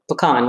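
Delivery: pecan said puh-KAHN, stress on the second syllable; pecan with an "ah" in the last syllable. Shown as a demonstration. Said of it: "which is what I say now".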